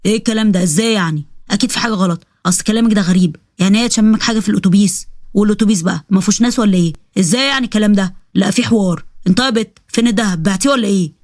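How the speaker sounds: lightly voiced doubting husband; suspicious husband. Husband doubting his wife's story about the gold, lightly voiced suspicion.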